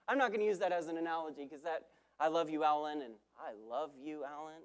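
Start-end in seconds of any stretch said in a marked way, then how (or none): 3.4-4.6 soft, tender, fading almost to nothing. Shown as a demonstration. Preacher showing how tone changes the message, said softly. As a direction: breathe it gently like a real confession. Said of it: "Same words, different message".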